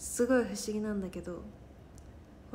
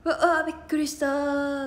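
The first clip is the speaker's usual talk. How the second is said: startled; 4 semitones higher, 8 dB louder than usual. Pretend. Acting a horror film fright.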